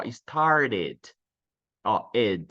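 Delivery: "started" with its final "ed" as a full syllable, then "ed" alone; ED ending. Shown as a demonstration. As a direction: demonstrate "started", then isolate "ed". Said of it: "tem esse E D no final".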